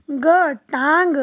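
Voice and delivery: टांग stretched slowly with nasal आं; slow nasal word. Shown as a demonstration. Teacher to children, slow nasal word. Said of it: "ट में आ की मात्रा टा".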